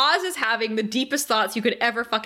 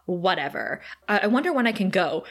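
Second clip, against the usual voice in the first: low, dismissive mock boredom; 5 semitones lower than usual. Imitating Cordelia thinking to herself, bored. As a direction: think it aloud, utterly uninterested. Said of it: "Cordelia is so bored".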